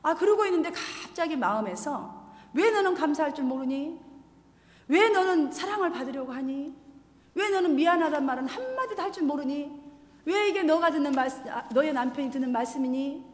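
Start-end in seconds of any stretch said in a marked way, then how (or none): 2.5-13.2 questioning inner voice. Retold or imitated. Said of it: "성령께서 물으시는 것 같이".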